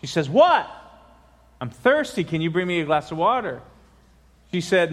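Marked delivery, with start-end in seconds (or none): 0.3-0.7 loud, high shouted reply; mom's sharp raised answer; exasperated mother. Acted. Mother answers her yelling son. 1.6-3.6 hint of a pleading child; lightly voiced boy. Boy pleads with mother in joke.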